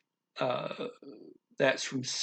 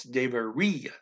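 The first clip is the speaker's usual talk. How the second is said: "deveria" with the emphasis on "ri"; teacher's model of "deveria", leaning on the I before the A; stress on the I; 2 semitones lower than usual. Shown as a demonstration. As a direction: say "deveria" as deh-veh-REE-ah. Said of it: "Emphasis on the, just the I".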